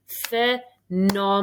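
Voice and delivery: "Phenomenal" stretched out slowly; slow, deliberate "Phenomenal". Shown as a demonstration. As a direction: draw out "Phenomenal" syllable by syllable. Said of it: "let's say that slowly".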